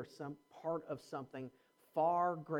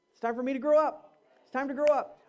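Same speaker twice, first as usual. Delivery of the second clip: "It's time for me to grow up." said louder and plain-paced; firm declaration; 7 semitones higher, 8 dB louder than usual. Shown as a demonstration. Pastor driving home "It's time for me to grow up." with a loud, firm voice. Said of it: "you thought I was gonna say something else".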